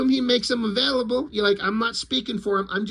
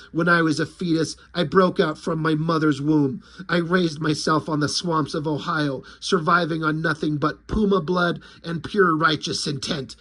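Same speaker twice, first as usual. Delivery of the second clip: much lower brooding tough-guy monologue; a deadpan action-hero growl; grim vigilante; 6 semitones lower than usual. Retold or imitated. Popo boasting his backstory to the lizards, low brooding voice. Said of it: "So Popo says".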